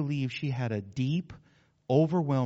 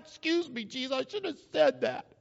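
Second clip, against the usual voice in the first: sheepish apology; 9 semitones higher than usual. Acted. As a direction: catch yourself and apologize, embarrassed.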